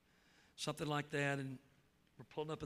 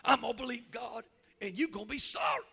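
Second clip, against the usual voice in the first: louder mock smart-aleck retort; hammed-up defiant daughter; 5 semitones higher, 7 dB louder than usual. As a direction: throw back a cheeky teen challenge. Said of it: "smart aleck".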